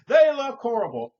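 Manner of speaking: imitating the customer's loud shrill complaint; shrieking complaint. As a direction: screech it like an outraged customer. Customer yelling.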